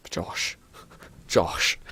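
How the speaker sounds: soft whisper. Real, not acted. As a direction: whisper the name. Whispering own name.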